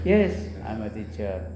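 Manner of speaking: Yes, I'm a teacher spoken slowly, "yes" stressed; slow clear answer. Shown as a demonstration. Teacher answers the student's practice question slowly. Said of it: "coba tanya saya".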